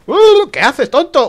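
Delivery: high loud startled shout; panicked yell. Real, not acted. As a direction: yell it in a sudden fright. Sudden attack in game.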